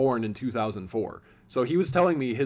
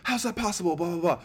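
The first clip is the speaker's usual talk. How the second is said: high-pitched mock disbelief, trailing into blah-blahs; incredulous reaction; 7 semitones higher, faster than usual. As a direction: play an exaggerated incredulous listener. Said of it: "you could react and be like".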